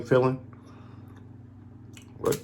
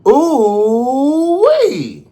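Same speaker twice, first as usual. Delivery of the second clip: excited yell; 6 dB louder than usual. Real, not acted. Intro exclamation, high and loud.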